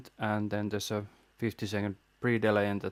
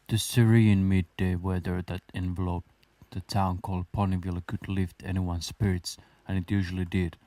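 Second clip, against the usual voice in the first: story narration; 3 semitones lower than usual. Acted. Reads fan fiction aloud.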